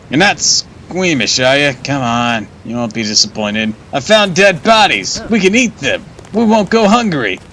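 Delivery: a gleeful ghoul pitching up as he talks of eating bodies; eager creepy companion. Acted. Streamer voices Malroth offering dead bodies, high gleeful ghoul.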